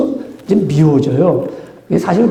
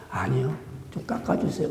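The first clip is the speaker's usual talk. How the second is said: 1 weak insistent plea; 4 semitones lower, 15 dB quieter than usual. Pretend. Patient insisting softly.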